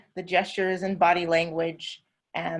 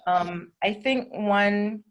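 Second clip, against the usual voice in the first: whisper; much slower than usual. Real, not acted. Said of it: "unvoiced whisper".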